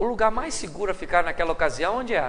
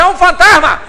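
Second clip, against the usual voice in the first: loud, high cry of fright; panicked shout; 8 semitones higher, 11 dB louder than usual. Acted. Someone in the dark boat, screaming in fear. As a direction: shriek the alarm across the boat. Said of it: "alguém grita".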